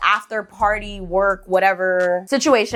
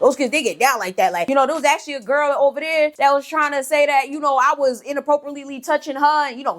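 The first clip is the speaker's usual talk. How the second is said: lightly imitated coworker, a little higher; a touch of his manner, pitched up; Crick Crack; 6 semitones higher than usual. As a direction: retell in the coworker's voice. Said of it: "That's how he talked".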